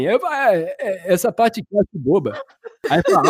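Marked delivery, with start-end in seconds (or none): 0.3-2.4 put-on old man voice. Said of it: "com voz de velho".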